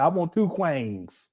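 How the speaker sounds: slow it down like you're imitating him; lightly voiced slow mimicry; slow mock quote. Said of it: "He said".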